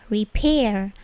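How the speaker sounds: "repair" with a puffed P; plosive P. Shown as a demonstration. Teacher modelling repair for students, aspirated P. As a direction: burst of air on the P of "repair". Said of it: "Perhatikan bunyi P-nya itu plosif".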